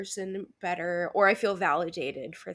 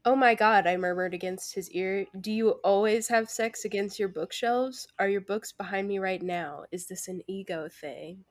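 reading aloud. Acted. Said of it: "I will read it aloud for you all now".

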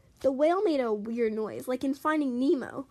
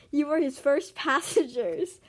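laughing. Real, not acted. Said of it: "Sorry, I'm laughing".

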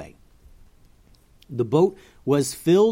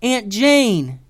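higher, louder happy cry; Bussy spotting her aunt, a joyful higher cry; joyful call; 9 semitones higher, 6 dB louder than usual. Acted. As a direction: shout with joy at finding her.

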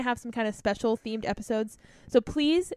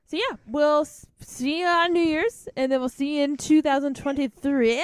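put-on Californian accent; 3 semitones higher, 4 dB louder than usual. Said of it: "Why did I start doing the Californian accent?".

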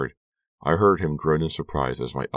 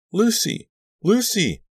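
very high, loud cry; piercing frantic call; shrieking; 6 dB louder, slower than usual. A narrator's reading. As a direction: shriek the name in terror. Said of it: "I was shrieking her name".

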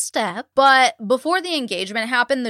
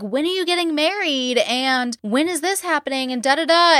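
mock pushy paparazzi; 5 semitones higher than usual. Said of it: "They literally start being like".

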